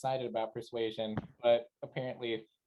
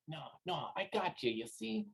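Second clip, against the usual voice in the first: much softer, hushed murmur; conspiratorial lean-in; 4 semitones higher, 8 dB quieter than usual. Acted. Galan leans in to his whispering companion, hushed. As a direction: reassure him privately, under your breath. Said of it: "I'm gonna lean in and be like".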